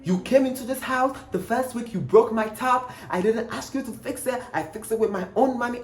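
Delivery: a hint of the landlord's grievance; landlord complaining. Landlord complaining about his broken tap, lightly voiced. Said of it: "This man was like".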